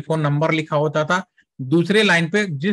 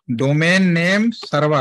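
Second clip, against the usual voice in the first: डोमेन name server said slowly, word by word; slow spelled-out term; slower than usual. Shown as a demonstration. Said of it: "पूरा नाम होता है domain name server". (धीरे-धीरे, हर शब्द अलग बोलें)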